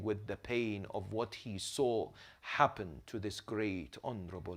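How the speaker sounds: very soft, low sermon voice; subdued mourning narration. A narrator's reading. Preacher recounts Fatima's suffering to mourners, subdued and low. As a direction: tell it hushed and low, with long pauses.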